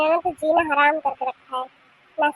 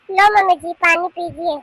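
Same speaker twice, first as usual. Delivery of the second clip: cross; 5 dB louder than usual. Acted. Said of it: "इतने गुस्से में क्यों है".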